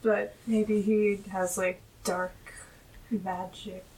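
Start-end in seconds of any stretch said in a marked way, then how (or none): 2.0-3.8 low, whispered mock menace; playfully sinister, hushed voice; spooky hush. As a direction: drop to an ominous whisper with a pause. Spooky suggestion of dark magic.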